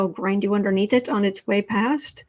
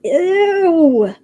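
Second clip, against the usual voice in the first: disgusted ew; 8 semitones higher, 8 dB louder than usual. Real, not acted. Disgusted at the fake voice.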